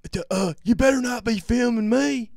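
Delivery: squeaky, high, loud mock warning. Mocking the manager's threat in a high squeaky voice. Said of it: "This kid's got".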